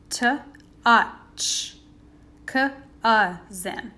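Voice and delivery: "cousin" stretched into separate sounds, c, uh, zin; sounding out cousin. Shown as a demonstration. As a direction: sound out "cousin" piece by piece for the class. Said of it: "You hear that uh sound".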